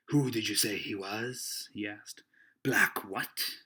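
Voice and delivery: slow, lightly voiced seaman; questioning old sailor. Silver asks the boy about the runaway, lightly voiced seaman. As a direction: draw the question out as a puzzled sea-cook.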